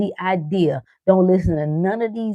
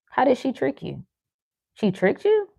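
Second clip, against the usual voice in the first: higher, mock astonished question; mock surprise; 6 semitones higher, 3 dB quieter than usual. Teasing men who got tricked, mock surprise. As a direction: feign disbelief, a touch higher.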